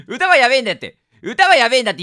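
1 laughing. Real, not acted. Laughing about song copyright.

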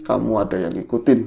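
a hint of a mysterious man speaking; man's voice. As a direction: drop the pitch to hint at a man. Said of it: "eh, suaranya cowok lagi".

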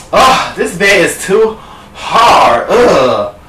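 drawn-out, slow mock complaint; acted disgust. Goldilocks trying Papa Bear's bed, acted disgust. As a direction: groan through the complaint, slowly.

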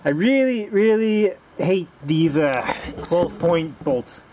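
slow, drawn-out griping; real grumble of irritation; complaining. Real, not acted. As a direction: lean on the hate, slow and exasperated. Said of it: "I'll quit complaining".

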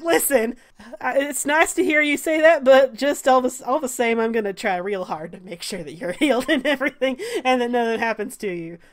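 anxious, earnest in-character reply; nervous. Acted. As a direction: play a nervous man trying to reassure. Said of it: "Sal looks really, really nervous".

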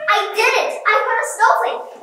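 high and loud with glee; triumphant cheer. Real, not acted. Cheering to friends after catching a snowflake, gleeful. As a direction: crow about the catch.

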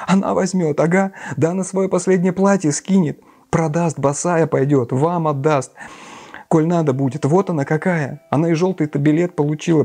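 high, desperate lament and plea; begging someone to defend her, high; pleading widow. Acted. Katerina Ivanovna pleads with Raskolnikov, high and desperate.

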